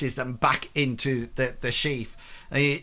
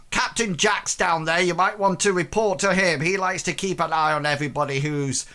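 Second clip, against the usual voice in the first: sailor advice; 3 semitones higher than usual. Acted. GM voicing sailor NPC.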